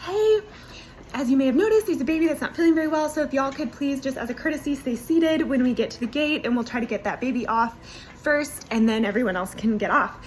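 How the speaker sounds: a hint of an airline PA voice; flight attendant announcement. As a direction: play the attendant on the loudspeaker, mildly. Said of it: "she gets on the loudspeaker".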